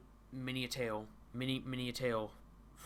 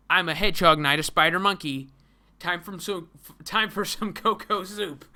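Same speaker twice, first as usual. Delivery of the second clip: hammed-up comic hero; 5 semitones higher, 13 dB louder than usual. Reading the comic's character lines.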